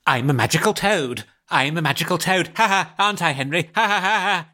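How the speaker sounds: lightly voiced silly child, rising into fake ha-has; freaky boy. Boy pestering his tentmate as magical toad, mock-silly voice. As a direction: imitate a relentless joker, pitch climbing on the laughs. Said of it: "he'd be like".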